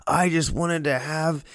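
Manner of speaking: a husband griping at his wife, hammed up lightly; angry husband. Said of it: "He's angry at his wife".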